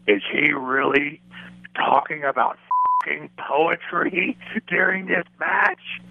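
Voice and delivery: slow, drawn-out disbelief, with a laugh; mock boss appalled at a poetry tangent; the boss stretching each word, then laughing; imitating the boss in disbelief. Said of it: "he goes".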